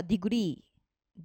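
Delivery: ディグリー with the final リー stressed; stress on final syllable. Shown as a demonstration. Teacher showing where degree takes its accent, final リー of ディグリー stressed. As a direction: lean on the long リー ending of ディグリー. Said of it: "そこを強く読むんですね".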